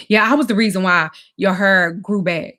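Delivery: imitating a partner demanding credit; retold boastful claim. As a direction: claim it loudly as his due. Retold quarrel with Damon.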